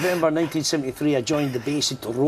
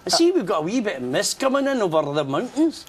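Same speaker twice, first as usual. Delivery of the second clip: 1 stage host greeting; 7 semitones higher than usual. Shown as a demonstration. Demoing his on-stage banter to audience.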